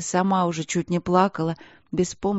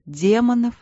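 strange-voiced echo; 6 semitones higher, 4 dB louder than usual. A narrator's reading. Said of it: "странным голосом переспросила".

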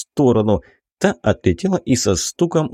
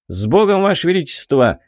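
cried out; 7 semitones higher than usual. A narrator's reading. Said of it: "выкрикнул Билый".

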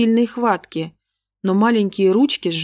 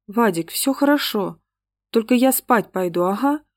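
fake squeak; 3 semitones higher than usual. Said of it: "пропищала Света таким фальшивым голосом".

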